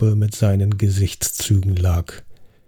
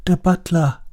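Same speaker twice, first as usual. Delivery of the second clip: higher accusing call; Sir Arthur exclaiming; 8 semitones higher than usual. Acted. Sir Arthur accusing the butler at the table, exclaiming. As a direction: point the finger with the word. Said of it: "rief Sir Arthur aus".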